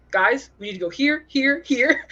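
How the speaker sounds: eager urging. Acted. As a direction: herd the group along excitedly. Player voices eager Mouse.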